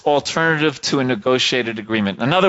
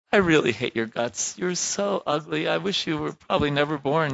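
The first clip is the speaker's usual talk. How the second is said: cold, softer mock insult; hateful tone; 4 semitones higher, 5 dB quieter than usual. Shown as a demonstration. Teacher shows a child a hateful tone. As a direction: spit it quietly at a child. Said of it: "And you go".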